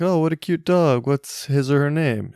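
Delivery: high, loud gushing stranger voice; stranger at dog park. Retold or imitated. Dog owner mimics a passer-by gushing at the dog, high and loud. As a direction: coo over the cute dog like a delighted passer-by. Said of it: "somebody's like".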